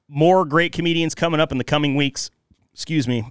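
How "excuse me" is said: talking through a burp; words pushed out with a burp. Real, not acted. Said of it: "Pabst Blue Ribbon burp".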